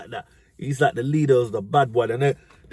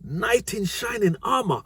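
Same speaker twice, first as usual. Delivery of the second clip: very high, slow dreamy gasp; swooning girl; 9 semitones higher, slower than usual. Retold or imitated. Stephanie swooning over the mystery biker, very high and dreamy. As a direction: melt at the sight of the rider. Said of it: "Stephanie is saying, like".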